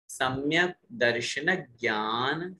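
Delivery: slow careful chanting of सम्यक दर्शन ज्ञान; recitation demo. Shown as a demonstration. Teacher leading class recitation, measured chant. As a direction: intone सम्यक दर्शन ज्ञान syllable by syllable for students to repeat.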